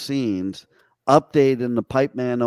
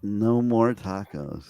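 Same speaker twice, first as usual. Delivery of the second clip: slow and low "No more tacos"; deadpan confirmation; 5 semitones lower, 4 dB quieter, slower than usual. Acted. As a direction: state it slowly and firmly. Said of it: "repeats the taco question".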